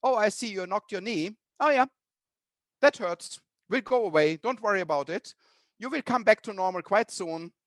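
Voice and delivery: mild brisk dismissal of the pain; brushing it off. Retold or imitated. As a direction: wave the hurt away, lightly. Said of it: "So that's different".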